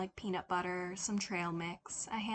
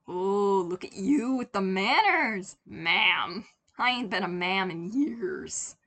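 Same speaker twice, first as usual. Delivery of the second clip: put-on louder, tickled old lady voice; lightly voiced old woman, charmed; amused older lady; 8 dB louder than usual. A narrator's reading.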